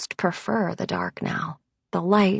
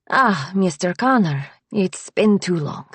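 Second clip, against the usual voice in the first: lightly voiced Eastern European accent. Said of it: "she says in an Eastern European accent".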